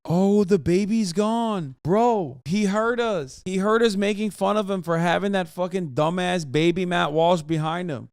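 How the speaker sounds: amused disbelief at the stream; excited surprise. Real, not acted. Reacting to baby disappearing.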